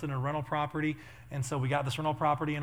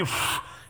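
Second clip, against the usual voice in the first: short blown gust of wind; mimicked wind noise; imitated gale. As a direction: puff out a blast like storm wind. Imitates weatherman battling wind.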